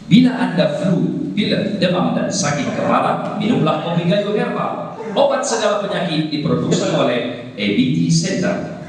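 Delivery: commercial announcer, listing items in falling steps; ad read. Shown as a demonstration. Trainer demos a herbal coffee ad, announcer voice. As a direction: sell it like a TV commercial.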